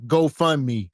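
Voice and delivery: deadpan mock interview answer; matter-of-fact answer. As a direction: answer the interviewer as if it's a normal job. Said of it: "They gonna wanna know".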